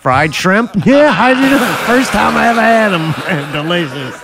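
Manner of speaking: mouth burning from spicy food. Pretend. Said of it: "My fucking lips is burning".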